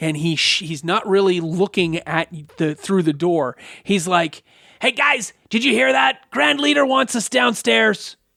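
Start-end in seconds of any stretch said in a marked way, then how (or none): 4.8-8.1 annoyed goblin voice, high and rough. Voicing a goblin guard who opens the door: pissed-off goblin guard voice. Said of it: "with a really pissed off look on his face".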